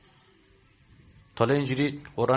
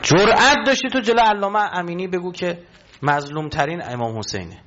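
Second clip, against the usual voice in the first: defiant challenge; 3 semitones higher, 5 dB louder than usual. Real, not acted. Preacher challenging the audience.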